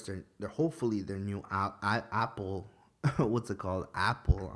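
tripping over the words; stumbling, can't find the name; stuttering. Real, not acted. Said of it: "I'm stuttering already".

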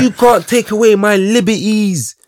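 put-on high, slow melodramatic kid; dramatic child voice. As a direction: plead it like an outraged little boy. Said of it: "he's like".

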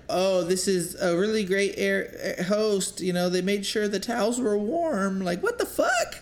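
high voice reading the reviews through laughter; mock the fake reviews while laughing; laughing high-pitched mockery of a fake review. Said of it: "I read shit like".

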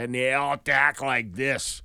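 slow mock Boston delivery; Boston accent. Shown as a demonstration. Showing how the movie characters talk, Boston accent. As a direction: slip slowly into Boston talk. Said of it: "it's all about Boston".

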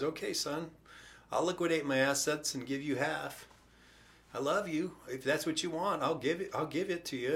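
softly voiced, accepting father; gentle father. Father granting his younger son half, gentle and soft. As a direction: give in softly, with love.

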